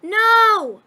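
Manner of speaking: shout. Real, not acted. Yelling at someone to stop.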